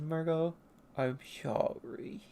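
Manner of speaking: soft, slow mock apology; apologetic. Penta apologizing to a hurt companion, soft apology. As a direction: trail down quietly as if feeling bad. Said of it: "Penta feels bad".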